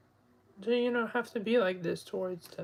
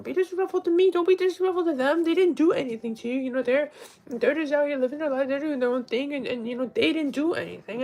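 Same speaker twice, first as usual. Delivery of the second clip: raised, louder angry scolding; heated scolding; 3 semitones higher, 4 dB louder than usual. Real, not acted. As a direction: tell them off hard, protecting your friends. Scolding someone bothering friends.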